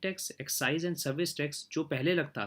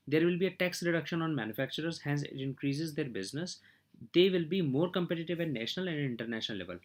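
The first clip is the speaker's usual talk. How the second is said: slow formal reading; much slower than usual. Acted. Reads English points slowly.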